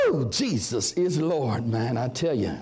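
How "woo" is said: short, falling "woo" of praise; exultant whoop. Real, not acted. Preacher overcome while praising an awesome God, exultant whoop. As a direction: let out a quick preacher's whoop.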